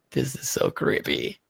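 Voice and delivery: breathy whisper, barely voiced; whispered aside. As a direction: whisper it under your breath. Repeated as an aside.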